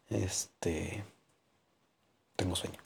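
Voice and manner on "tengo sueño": sleepy, mid-yawn. Real, not acted. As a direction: say it through a yawn. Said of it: "Perdón por si estoy bostezando".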